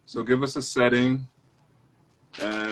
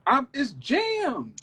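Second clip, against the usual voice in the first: high, flustered Haitian robber; Haitian accent; 11 semitones higher, 5 dB louder than usual. Acted. Haitian robber to his Jamaican partner in a high flustered voice. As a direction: raise the pitch, panicked at a jammed lock. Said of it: "a Jamaican and a Haitian".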